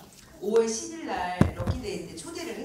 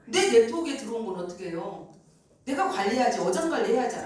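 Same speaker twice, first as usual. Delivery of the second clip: ordinary delivery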